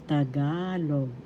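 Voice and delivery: Tagalog. said slowly with the middle "ga" drawn out; careful teaching model of Tagalog., stressed ta-GA-log; stress on second syllable. Shown as a demonstration. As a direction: stretch the GA in Tagalog. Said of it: "That's how it is pronounced".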